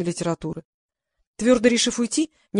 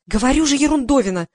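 rattling on; 5 semitones higher, 5 dB louder than usual. Acted. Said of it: "тараторила глупышка".

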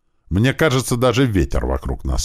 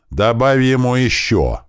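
crowd shout; 9 semitones higher, 5 dB louder, slower than usual. Acted. Crowd egging on a beating.

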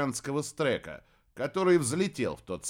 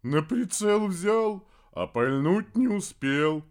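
grumbling papa; 6 semitones higher, 5 dB louder, slower than usual. A narrator's reading. Papa complains, higher louder.

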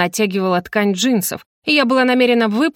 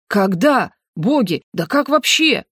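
растерянные высокие восклицания; засыпь вопросами, не веря; изумлённо; 3 semitones higher, slower than usual. Acted. Father stunned by the news. (потрясённо)

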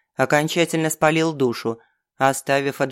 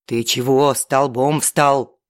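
hissing; slower than usual. Acted. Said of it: "зашипел Степаныч".

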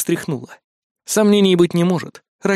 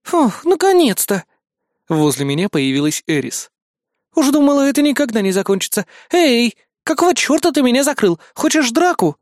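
put-on sassy assistant girl; 7 semitones higher than usual. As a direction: play her as a feisty little assistant picking a fight. Eris, a cheeky AI assistant.

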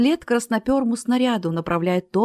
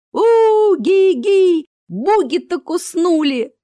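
much higher, louder, slow jeering guffaw; mocking cackle; 10 semitones higher, 8 dB louder, much slower than usual. Crowd jeers, cackling at Bugit's defeat. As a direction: cackle at the bitten showman.

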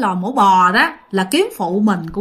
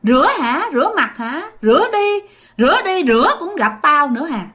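a touch of a mocking old crone, higher; ghostly old woman taunting; 4 semitones higher than usual. Ghost old woman whispering taunts in her ear as she washes, mocking. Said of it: "bả nói trong lỗ tai".

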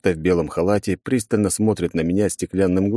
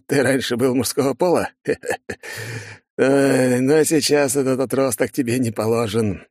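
higher, mocking doctor voice; 5 semitones higher than usual. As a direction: tease him with a snicker. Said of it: "заржал Нобель". (насмешливый доктор, голос выше)

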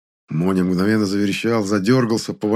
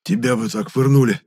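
rasped; 5 semitones higher than usual. A narrator's reading. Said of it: "прохрипел Моня".

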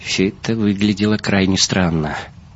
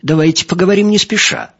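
much higher, eager voice; delighted agreement; 12 semitones higher, 3 dB louder, faster than usual. A narrator's reading. Benyovsky taking up the guest's proposal, delighted. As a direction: take up the suggestion with pleasure. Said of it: "расцвёл Бенёвский".

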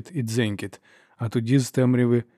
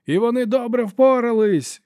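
high, loud call with a fall on добре; indignant lord shouting from his bench; shouted; 12 semitones higher, 4 dB louder than usual. A narrator's reading. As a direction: call out добре across the hall. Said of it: "гукнув лорд Хюген".

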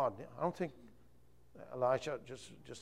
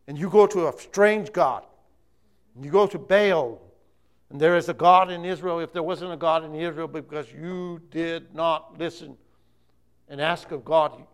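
preaching at full force; 2 semitones higher, 11 dB louder than usual. Acted. Elijah's rebuke continues.

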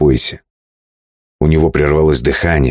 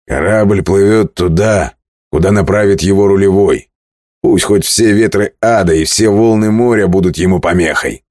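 proud declaration; 5 semitones higher than usual. Acted. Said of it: "гордо заявил". (гордое заявление)

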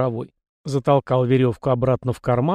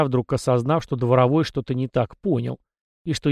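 ordinary delivery

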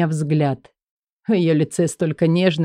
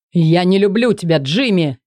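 yelling; 3 dB louder than usual. Acted. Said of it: "Ору".

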